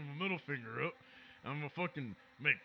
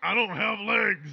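angry yell; 3 semitones higher, 10 dB louder, slower than usual. Acted. Legless future Victor complaining.

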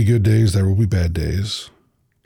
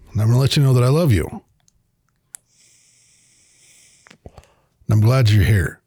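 deliberate heartfelt talk with long pauses; slow, loving talk; 2 semitones higher than usual. Real, not acted. Host telling listeners he loves them, slow and sincere. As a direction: gently lecture like a parent, taking your time. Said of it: "talk real low and I'm gonna talk real slow".

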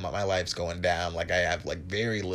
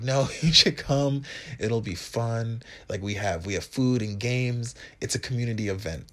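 coaxing host; 3 semitones higher, 3 dB louder than usual. Retold or imitated. Hosts pushing invitation.

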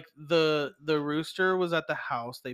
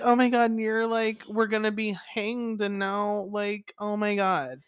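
campy judge; 5 semitones higher than usual. Retold or imitated. Judge gushes again.

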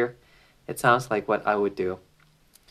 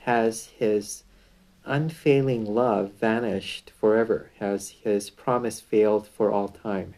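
measured, solemn Bible reading; scripture reading. Acted. Preacher reading the psalm to listeners, solemn reading voice. Reads Psalm aloud before commentary.

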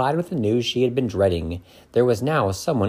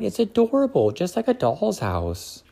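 delighted Snow White; 8 semitones higher than usual. A narrator's reading. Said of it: "said Snow White".

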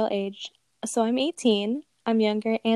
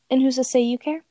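whisper; 3 semitones higher than usual. Retold or imitated. Retold text fight.

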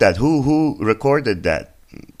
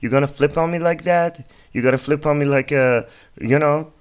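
mock outrage at doctor; 5 semitones higher than usual. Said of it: "I was like".

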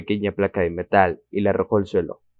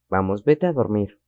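gentle. Acted. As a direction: gently send her back to bed. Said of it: "le dijo con suavidad".

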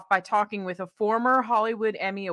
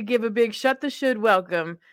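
loud, rising announcer-style welcome; big show-host welcome; hyped guest introduction; 5 semitones higher, 9 dB louder than usual. Real, not acted.

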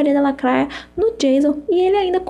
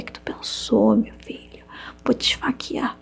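soft joking threat; mock menacing whisper; 6 dB quieter than usual. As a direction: whisper a fake threat playfully. Mock threat, then "brincadeira.

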